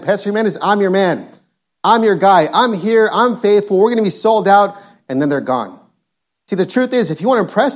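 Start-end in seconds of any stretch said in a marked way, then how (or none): 0.0-4.7 higher-pitched imitation of eager promises; mock a man swearing his loyalty; acted keen, insistent vow; eager pledge.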